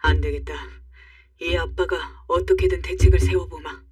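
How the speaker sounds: determined father. Acted. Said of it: "결계 어린 표정을 하고".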